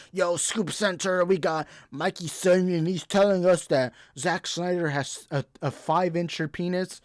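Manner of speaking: slow, put-on insider voice; mocking scooper. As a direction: parody a smug leaker. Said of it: "they can be like".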